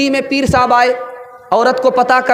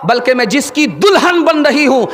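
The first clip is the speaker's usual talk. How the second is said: preaching shout; 3 semitones higher than usual. Acted. Preacher building to bride's point.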